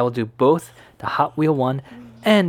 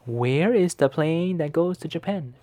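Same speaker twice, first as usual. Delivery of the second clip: polite question voice; 4 semitones higher than usual. Acted. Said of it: "we're just gonna ask them".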